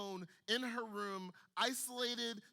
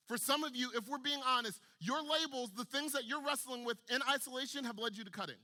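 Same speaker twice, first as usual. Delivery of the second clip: preaching build; 4 semitones higher, 3 dB louder than usual. Real, not acted. Preacher building to altar appeal.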